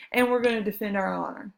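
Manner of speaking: hushed mock-secret whisper. Teacher whispering the Warhawks' plan to the class. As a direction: whisper it like a conspiracy.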